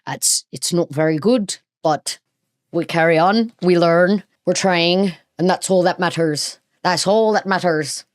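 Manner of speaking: amateur Irish accent attempt. Shown as a demonstration. Host owning up to practicing, attempted Irish accent. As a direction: have a shaky go at an Irish accent. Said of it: "I'm working on my Irish accent".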